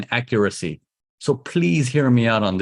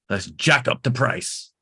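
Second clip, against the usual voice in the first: slow, softer, drawn-out jack up the price; knowing sly tone; 4 dB quieter than usual. Shown as a demonstration. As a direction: savour it like a greedy seller. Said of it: "You gotta get this tone in your head".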